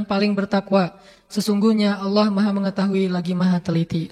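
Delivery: measured, solemn reading of the verse; scripture translation reading. Acted. Preacher reading the verse to the congregation, solemn.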